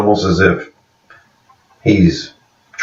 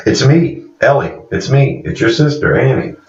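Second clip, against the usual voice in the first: excited; 6 semitones higher than usual. Retold or imitated. Revealing herself to sister.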